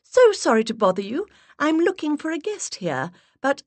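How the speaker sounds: sweet high-pitched put-on voice. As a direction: push the voice way up and play the charming visitor. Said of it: "I raised my voice an octave".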